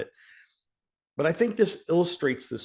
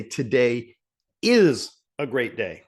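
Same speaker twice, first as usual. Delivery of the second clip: is said louder and falling, Today set apart by a pause; stress on is; 3 dB louder, slower than usual. Shown as a demonstration. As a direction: pause after Today, then punch is. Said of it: "You see the difference?".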